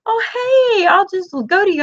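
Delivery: high, fast squeaky voice for the lamb; lightly voiced naive lamb; mock lamb voice. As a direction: voice the lamb as dim and cheerful. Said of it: "this lamb's like".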